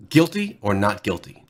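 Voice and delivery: lightly voiced judge; understated verdict in a judge's tone. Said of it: "That's a judge voice".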